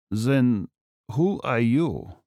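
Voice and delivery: put-on lightly accented, slow demand; a hint of a wary German villain; suspicious German captive. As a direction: ask slowly in a German accent.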